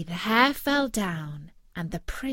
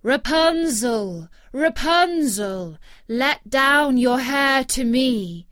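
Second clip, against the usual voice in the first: slow, loud call to the tower; 4 semitones higher, 7 dB louder, slower than usual. Acted. Prince calling up to the tower window, slow loud call. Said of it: "the king's son came and cried".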